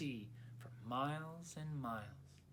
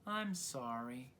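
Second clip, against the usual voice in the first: slow, sighing apology; balloon sighing sorry at the lost friend; sighed; 4 semitones lower than usual. Acted. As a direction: let it drift out on a sigh. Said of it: "Sorry drifted past and sighed".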